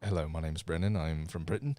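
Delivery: lightly done posh British; British accent. Acted. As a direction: friend asks him to do his British accent, soft posh British. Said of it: "Do your British accent".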